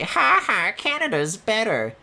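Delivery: high, mocking cartoon dad gloat; Peter Griffin voice. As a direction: gloat like a dopey sitcom dad. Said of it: "like, a Peter Griffin voice".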